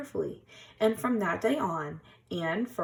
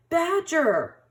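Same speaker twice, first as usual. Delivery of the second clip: higher, louder call over the storm; yelling; 11 semitones higher, 7 dB louder than usual. A narrator's reading. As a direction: shout him in from the storm. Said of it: "yelled Rabbit".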